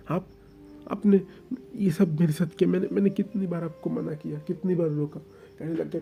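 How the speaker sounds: stammering out his grievances; tearful accusation. Acted. Oing accuses, distressed. (रुआँसा होकर आरोप लगाता ओइंग)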